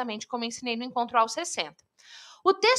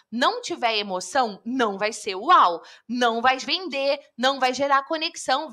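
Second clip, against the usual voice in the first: ordinary talk, nothing marked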